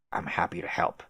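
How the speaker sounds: hushed and breathy; whispered. Acted. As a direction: drop to a whisper. Sudden whispered line.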